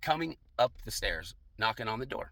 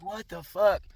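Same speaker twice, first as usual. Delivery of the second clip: high, loud exclamation of disbelief; retold disbelief; 8 semitones higher, 6 dB louder, slower than usual. Telling his bro about the woman, loud incredulous outburst. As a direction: blurt it out, pitched way up.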